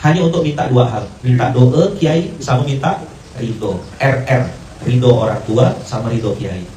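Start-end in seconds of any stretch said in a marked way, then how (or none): none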